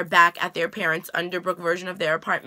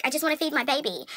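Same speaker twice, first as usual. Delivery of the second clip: Zelena pleading; 6 semitones higher, 3 dB quieter, faster than usual. Retold or imitated. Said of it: "she's like".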